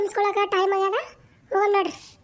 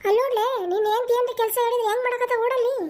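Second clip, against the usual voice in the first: fast, raised complaint to her son; mother complaining to her son about the wife, fast and raised; complaining loudly; 3 semitones higher, faster than usual. Acted. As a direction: rush out an indignant grievance. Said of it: "ಚೀರ್ತಾಳಲ್ಲ".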